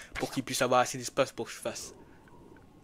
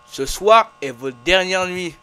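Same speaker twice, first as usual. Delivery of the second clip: ominous ghost voice; 5 semitones higher, 16 dB louder, slower than usual. Acted. Ghost line read out.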